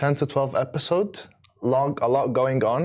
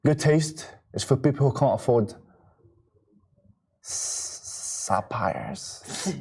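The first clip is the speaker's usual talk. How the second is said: Thomas Shelby impression; slower than usual. Asked on a morning show to do Tommy Shelby in Birmingham accent. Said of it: "We're gonna see Thomas Shelby".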